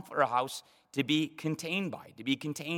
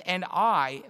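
"I" lifted higher with firm weight; emphatic I; 4 semitones higher, 4 dB louder than usual. Retold or imitated. God speaking to David in verse eight, emphatic "I". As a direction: press on "I". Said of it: "and again, it's even I".

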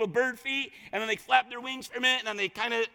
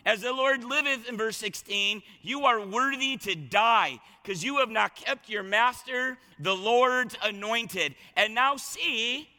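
taunting. Acted. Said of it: "he's just taunting him".

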